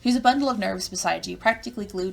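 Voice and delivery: animated game narration read aloud; story narration. A narrator's reading. Narrator welcomes the player to Ardata's party, animated storytelling.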